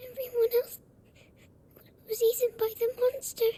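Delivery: tearful. Acted. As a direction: voice breaking into a cry. Girl recounting the monster's killings.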